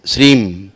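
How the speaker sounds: श्रीम, ending with lips shut on m; demonstrating श्रीम, again; closed m. Shown as a demonstration. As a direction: say श्रीम, with the m hummed. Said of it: "माँ मतलब बंद हो जाएगा मुंह".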